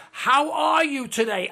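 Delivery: put-on bright, sing-song politeness at the elderly; sugary greeting. Mocking how people greet a senior, in a sugary sing-song.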